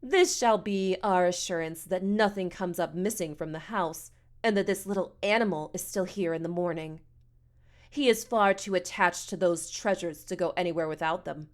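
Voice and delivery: lightly voiced disdainful matron; a touch of pompous sarcasm; haughty, mocking woman. Missus Amos mocks the boy.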